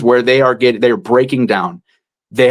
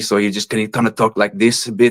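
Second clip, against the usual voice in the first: put-on husky voice with Colombian accent; 3 semitones lower, 3 dB quieter than usual. Describing a character's voice, the speaker demonstrates it: husky Colombian accent. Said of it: "he had like a Colombian accent, and he was more husky".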